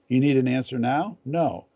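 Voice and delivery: curt, rude little question; the tactless version, short and blunt. Shown as a demonstration. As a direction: toss it back without any cushioning. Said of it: "too short, too blunt, too rude".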